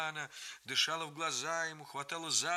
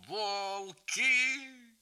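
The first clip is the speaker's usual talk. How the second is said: angry shout; 8 semitones higher, 5 dB louder than usual. A narrator's reading. Grandfather shaking fist at sons.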